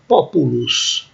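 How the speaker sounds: "populus" slowly, stressed on the first syllable; Latin example word. Shown as a demonstration. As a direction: sound out "populus" as PO-pu-lus. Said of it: "essa primeira palavra".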